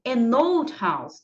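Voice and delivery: put-on "an old house" said slowly, the n of "an" run straight into "old"; linked an old. Shown as a demonstration. Teacher showing students how the words join, slow linking. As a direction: join "an" onto "old", no break, slow and clear. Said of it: "eu também já colo".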